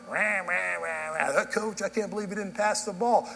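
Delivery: griping mumbo-jumbo, then the complaint; mock grumbling. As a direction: imitate a grumbling parent at a ballgame. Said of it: "we're just grumbling".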